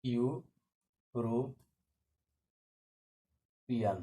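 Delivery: drawn out, spelled slowly; slow dictation. Shown as a demonstration. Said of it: "এখানে এ হবে নাকি এন হবে?". (ধীরে ধীরে বলা)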